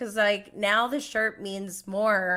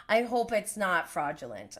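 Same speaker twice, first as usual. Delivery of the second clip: laughing; 3 dB quieter than usual. Real, not acted. Laughing then repeats line.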